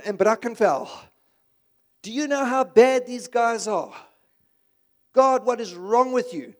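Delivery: angry Jonah. Retold or imitated. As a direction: rant at God like an indignant prophet. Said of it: "And he gets angry with God".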